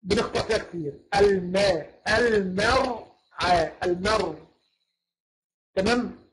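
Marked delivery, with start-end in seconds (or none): 1.2-4.5 slow, broken-down المرعى with thin م; careful light meem. Shown as a demonstration. Teacher drilling a common mistake, slow light المرعى. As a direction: take المرعى apart, keeping م and ع light. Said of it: "ناخد بالنا من الحتة دي".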